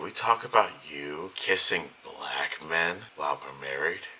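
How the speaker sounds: slow, wounded mimicry, fading at the end; imitating hurt husband. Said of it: "Just the way he said that".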